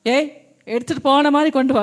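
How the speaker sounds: quick, bossy mock order; mock rude demand. Preacher mocking a rude version of Mary's demand, fast. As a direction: bark a mock command, hammed-up. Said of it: "அப்படி சொன்னாளா?".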